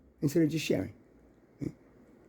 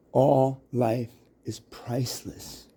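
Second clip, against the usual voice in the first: solemn voice; 3 semitones lower, 5 dB quieter, much slower than usual. Acted. Solemn pronouncement about life.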